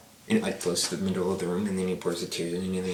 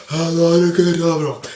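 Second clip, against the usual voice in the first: Voldemort; 10 semitones higher, 12 dB louder than usual. Retold or imitated. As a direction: cast the curse in a hammed-up yell. Voices Voldemort casting the killing curse.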